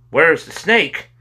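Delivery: high, loud, slow cry. A narrator's reading. Two boys crying to the mother in unison, loud. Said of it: "they cried in unison".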